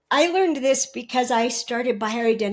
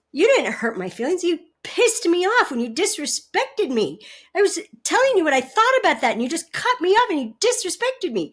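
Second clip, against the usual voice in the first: mock angry wife; 4 semitones higher, faster than usual. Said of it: "Or she might say".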